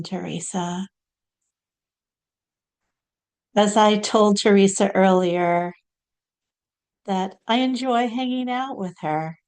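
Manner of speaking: lightly voiced channelled saint, deliberate pauses; measured, gracious saint speaking through a medium; Saint Clare. Channelled saint thanking the host for a nice introduction, lightly voiced, measured. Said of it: "now we're gonna hear from Saint Clare".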